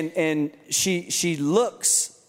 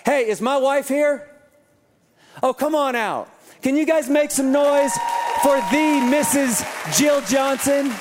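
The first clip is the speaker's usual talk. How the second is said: raised, higher voice hyping the crowd; big announcer-style introduction; calling out to crowd; 6 semitones higher, 3 dB louder than usual. Real, not acted. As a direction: call her up and get them cheering. Pastor calls wife onstage to crowd.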